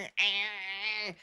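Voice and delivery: long, very quiet mock drone; soft drawn-out nonsense sound; mocking impression noise. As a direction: imitate a wordless stuck noise, hushed. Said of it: "head of C E O, goddamn Palantir, going".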